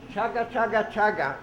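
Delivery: put-on rhythmic chugging chant for kids to copy; train sound demo. Shown as a demonstration. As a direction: chant chaga chaga like a steam train. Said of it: "Can you say chaga".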